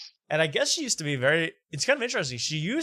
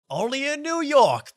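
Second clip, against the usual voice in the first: high, drawn-out showy proclamation; big mock-celebratory call, stretched out; hammed-up catchphrase; 11 semitones higher, 4 dB louder, slower than usual. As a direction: belt it out slowly like a cheesy slogan.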